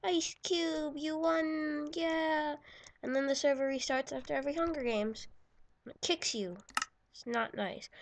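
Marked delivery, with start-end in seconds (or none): 0.0-2.6 higher, louder happy cheering; excited cheer. Real, not acted. Gamer cheering as Ice Cube wins, excited. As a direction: cheer for the winner.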